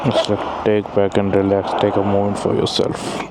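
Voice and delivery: low, soft invitation to unwind; soothing, relaxed. Real, not acted. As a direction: ease the listener into a quiet pause. Pausing to relax in the quiet.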